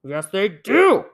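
slow, firm insisting; insisting cry. Acted. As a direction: stress each word, insisting. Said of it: "cried Bear".

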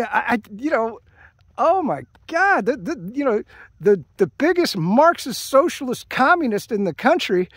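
incredulous, exasperated griping; indignant rant. Real, not acted. Political rant about hypocrisy.

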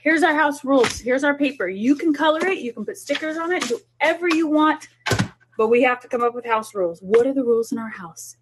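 a parent enthusing over house rules; upbeat parent to kids. Shown as a demonstration. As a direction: sell the homework game to the kids. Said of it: "So sit down and say".

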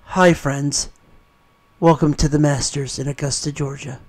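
hushed, low golf announcer; golf commentator. Retold or imitated. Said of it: "Or when you go to the Masters".

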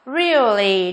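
"really" with a clear ear glide; EAR vowel. Shown as a demonstration. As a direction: model "really" slowly with the ear diphthong.

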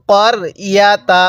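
করিয়াতা with a short first vowel, not কারিয়াতা; correct করিয়াতা. Shown as a demonstration. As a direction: keep the ক short and slow. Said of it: "অনেকেই কারিয়াতা পড়বেন".

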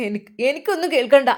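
put-on impatient old man waving him off; curt refusal. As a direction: snap back a quick refusal. Mukri refuses angrily.

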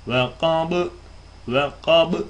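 kabı with a bouncing echo on the b; recited kabı with qalqala; qalqala demo. Shown as a demonstration. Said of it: "yine gargara vardır".

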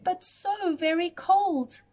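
a lightly voiced sad giraffe; mild whine of a cold giraffe. Giraffe wishing for a scarf, lightly voiced and sad. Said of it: "said the giraffe".

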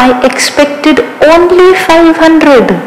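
mock-hurt pleading over a small sum; aggrieved complaint. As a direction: stretch it out like you've been cheated. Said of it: "You said".

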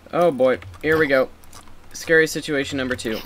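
loud, high alarmed outburst; bracing for a mob attack; panicked gamer. Real, not acted. Skeletons attack in game.

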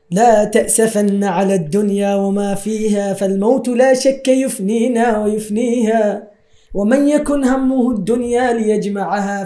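measured Arabic poem recital; poem recitation. Acted. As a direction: recite the verses steadily.

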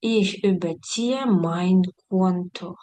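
slow, careful German example; slow demo read. Shown as a demonstration. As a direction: read the example slowly for students. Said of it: "example sentence read slowly". (повільне читання прикладу)

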